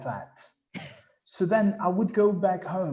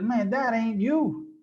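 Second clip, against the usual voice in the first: higher-pitched mock scolding; imitating scolding followers; 5 semitones higher than usual. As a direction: call him out like a follower. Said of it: "gonna be like this".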